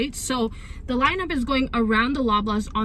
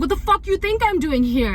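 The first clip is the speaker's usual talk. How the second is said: high-pitched imitation of a rude outburst; indignant snap, retold in a mocking high pitch; mimicked angry man; 8 semitones higher than usual. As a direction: imitate an aggressive stranger, pitched way up. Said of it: "he starts, like, mocking me".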